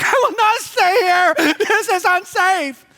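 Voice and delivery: high, firm, slowed refusal; indignant daughter. Retold or imitated. Daughter refusing the motel room, high and indignant. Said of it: "Miranda's like".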